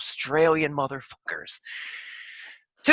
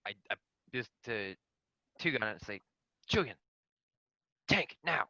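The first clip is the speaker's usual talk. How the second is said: whisper; 4 semitones lower, 9 dB quieter than usual. Pretend. Whispering in-character to avoid detection.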